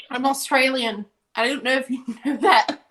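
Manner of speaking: put-on, unconvincing Australian accent; badly faked Australian accent. Joking to friends that she was the actress, fake Australian accent. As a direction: pretend to be Australian, not very convincingly. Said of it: "What part of Australia is that accent from".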